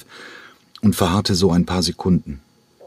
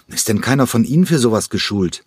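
cutting; 5 semitones higher than usual. Acted. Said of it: "wandte sich Dieter Gräfe schneidend an".

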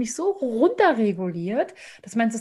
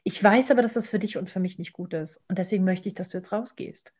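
calm understanding; 2 semitones lower, 4 dB quieter than usual. Shown as a demonstration. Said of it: "Sondern ich sage".

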